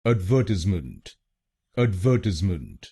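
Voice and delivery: एडवर्टाइजमेंट with VER stressed. Shown as a demonstration. Teacher showing learners where the British stress falls. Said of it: "दूसरे शब्दांश पर यानी वीईआर पर जोर".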